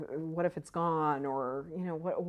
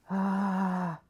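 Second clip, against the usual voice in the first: long, held "ahh" noise; drawn-out "ah"; 3 semitones higher, 3 dB louder than usual. Acted. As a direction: let out a sustained ahh to act out a frazzled state. Voices the rushed state she rejects.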